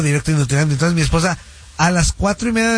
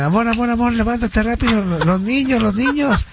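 panicked; 6 semitones higher than usual. Retold or imitated. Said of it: "Asustadísimo y despertando a todo el mundo".

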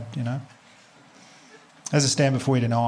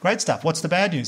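higher, bright eager reply; excited; 4 semitones higher than usual. Retold or imitated. Comedian telling detective he's thrilled, eager and higher. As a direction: sound thrilled by the good news. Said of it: "I was like".

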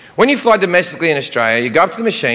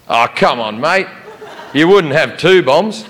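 a lightly voiced, slow Australian 'come on mate'; easygoing Aussie, mildly laughing; Australian drawl. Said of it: "the most Australian thing I've ever heard".

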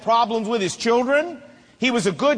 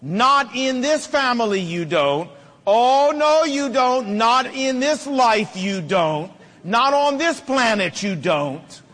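put-on firm, rising stern warning in a child's face; a father confronting his child, stern and emphatic; 3 semitones higher, slower than usual. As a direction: lay down the law, each "you don't" clipped and final. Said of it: "got in their face and said".

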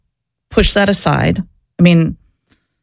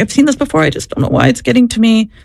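mildly upset, higher-pitched quote; retold upset; 4 semitones higher, faster than usual. Nurse confiding in her after shutting the door, retold upset. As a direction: voice a colleague's troubled confusion, lightly. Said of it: "she was really upset".

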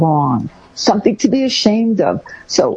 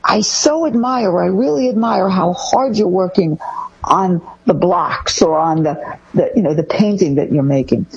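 admiring parent. Shown as a demonstration. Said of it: "focus on your child's wonderful strengths".

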